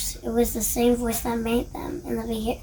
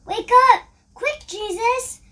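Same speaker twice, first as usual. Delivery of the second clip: high, urgent cry to wake him; desperate call in the storm; frantic plea; 11 semitones higher, 6 dB louder than usual. A narrator's reading. Frightened disciples wake Jesus.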